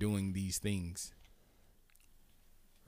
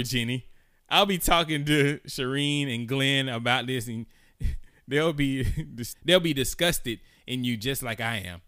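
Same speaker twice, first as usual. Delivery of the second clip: loud, higher angry rant; angry ranting lady; 3 semitones higher, 4 dB louder than usual. Retold or imitated. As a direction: read it like a furious neighbor. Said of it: "Then the other lady says".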